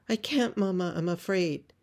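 lightly voiced frightened child; scared little boy. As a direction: balk like a nervous small boy. Frightened little boy answers mother.

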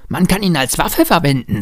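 put-on high little-boy voice; child Lennart. A narrator's reading. Boy arguing for keeping the candlestick, high child voice. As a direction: argue it high, as a small child.

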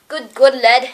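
lightly put-on Scottish accent; amateur attempt at a Scottish accent. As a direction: try a Scottish lad's greeting.

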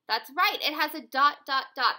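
gasp, then loud and bright; excited gasp. Shown as a demonstration. Teacher cheering the class's answer with loud excitement. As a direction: act thrilled to reward the class. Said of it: "teacher showing excitement to class".

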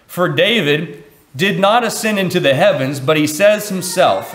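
solemn public scripture reading. Acted. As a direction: read the verses with weight. Reading Acts scripture aloud.

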